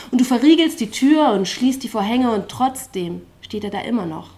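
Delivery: rhythmic, driving spoken-word delivery with a pulsing chorus; slam poetry recital. Acted. Poet on stage reciting to the slam audience, rhythmic spoken word. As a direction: perform it like a poetry slam, riding the beat.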